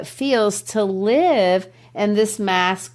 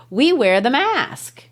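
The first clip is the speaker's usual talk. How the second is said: "We wear the mask" set apart, pitched up; emphatic set-apart line; 5 semitones higher than usual. Shown as a demonstration. Teacher showing the refrain set apart, emphatic "We wear the mask". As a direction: declare "We wear the mask" as its own emphatic statement. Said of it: "kind of saying it like that".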